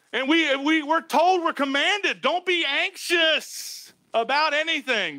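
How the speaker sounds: high, urgent pulpit exhortation; forceful preaching. Real, not acted. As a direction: drive each command home to the congregation.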